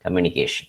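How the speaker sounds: "communication" stressed on CA; communi-CA-tion, weight before the ending; stress on second-last syllable. Shown as a demonstration. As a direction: lean on CA in "communication". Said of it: "the second last syllable is stressed".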